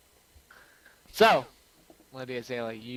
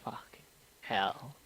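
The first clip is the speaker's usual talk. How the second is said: muttered aside; 4 dB quieter than usual. Retold or imitated. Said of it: "you're like".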